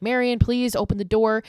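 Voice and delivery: trapped husband begging his wife to open up; mock begging. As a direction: plead through the door in a panic. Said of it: "begging Marion".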